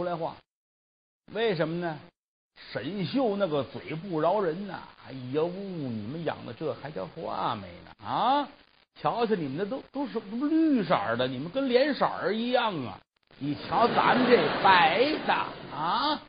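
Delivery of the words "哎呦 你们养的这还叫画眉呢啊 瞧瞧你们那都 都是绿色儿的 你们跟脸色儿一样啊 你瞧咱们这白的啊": sneering mockery. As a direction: drag it out with a curled lip, mocking them. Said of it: "特撇着辣嘴".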